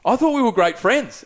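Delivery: mildly hurt, high-pitched retold protest; hurt plea. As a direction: plead with a friend who just turned on you. Pleading with drunk friend.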